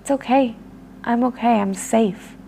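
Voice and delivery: calm, reassuring, settling down; loving voice. Shown as a demonstration. Speaker reassuring her ego that she is safe, calm and loving. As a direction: reassure it gently. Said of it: "talking to it in a loving voice".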